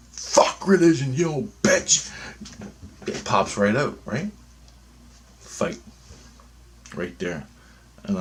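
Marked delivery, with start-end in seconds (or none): 0.1-2.1 loud, higher snapping retort; outburst. Retold or imitated. Answering the pushy churchgoer with a sudden loud insult. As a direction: blurt the insult out without thinking.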